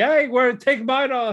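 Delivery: put-on high, loud, squeaky girlish voice. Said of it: "the other girl's like".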